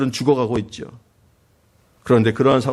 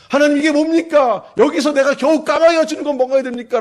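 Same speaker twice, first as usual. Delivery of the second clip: much higher, louder indignant complaint; resentful outcry; 13 semitones higher, 4 dB louder than usual. Retold or imitated. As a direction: demand an answer from God. Elijah's resentful complaint to God.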